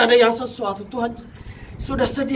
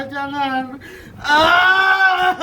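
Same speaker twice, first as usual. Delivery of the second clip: crying plea; much slower than usual. Real, not acted. Possessed person crying out.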